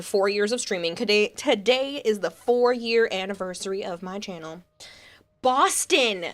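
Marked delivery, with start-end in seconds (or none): 5.4-6.3 Boston said in a Massachusetts accent, a bit higher. Shown as a demonstration. Streamer saying the city name the way chat asks. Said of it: "How you people want me to say this".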